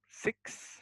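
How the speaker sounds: "six" with its final s sounded; "six", ending in an audible hiss of s; correct final S. Shown as a demonstration. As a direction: finish "six" on a clear ks. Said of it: "ada S-nya".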